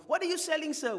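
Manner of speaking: high, loud questioning passer-by; curious market visitor. Acted. Preacher voices a market visitor at the gazebo, high and loud. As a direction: call out like a curious stranger at the stall.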